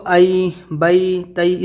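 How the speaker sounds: ائی، بئی، تئی separately, each ending in "a-ee"; model pronunciation. Shown as a demonstration. Teacher shows students the way to read, model pronunciation. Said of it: "اس طریقے سے".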